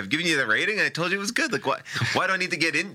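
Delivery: indignant, comically put-upon; mock exasperation. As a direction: complain as if pestered by the app. Acts out exasperation at review prompt.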